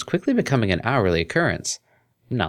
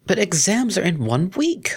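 higher, slow sulky whine; sulking; 12 semitones higher than usual. A narrator's reading. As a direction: plead like a pouting student. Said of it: "sulked the cellist".

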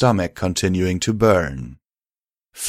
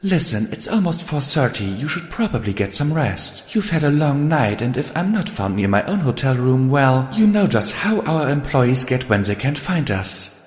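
higher, chatty character voice; friendly Rarity; 6 semitones higher than usual. Acted. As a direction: gently excuse yourself to a friend. Rarity takes her leave.

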